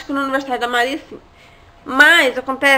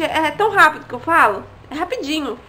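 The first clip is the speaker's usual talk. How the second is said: ordinary talk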